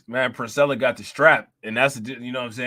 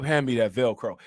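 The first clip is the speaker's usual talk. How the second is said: deep, lower mock Princella, pushed out louder than the whisper; 5 semitones lower than usual. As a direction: say the Velcro line again, deep but turned up. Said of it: "you gotta turn the microphone all up".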